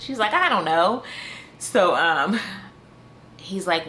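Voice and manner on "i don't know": imitating a flustered answer, pitch raised; mildly exasperated mock helplessness; freaking out. Overwhelmed woman answers his question about the power, mock freaking out. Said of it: "She's just freaking out".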